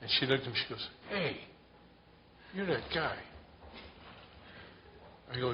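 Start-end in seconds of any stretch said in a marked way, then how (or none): 1.1-3.2 lightly voiced lady, raised pitch; a hint of an excited woman spotting someone; high, eager hey from the lady at the gas station; woman's voice. Woman recognizes him at gas station.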